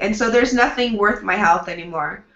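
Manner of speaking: ordinary delivery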